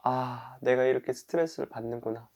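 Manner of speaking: breathed sigh, then soft realization; accepting observation. Pretend. Person who overslept observes their own stress, softly accepting. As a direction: notice your stress quietly, without judging. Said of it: "있는 그대로 바라보기".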